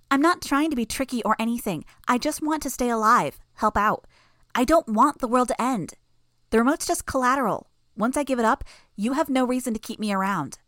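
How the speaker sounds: put-on high, loud little-girl plea; a creepy child bargaining to stay alive; eerie child pleading.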